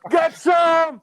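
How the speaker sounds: loud, high action-hero yell; Rambo-style battle cry. Acted. Gunner mowing down enemies in a game, hammed-up battle shout. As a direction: holler it like an over-the-top movie commando. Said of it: "between Rambo and Charlie Sheen and Hot Shots".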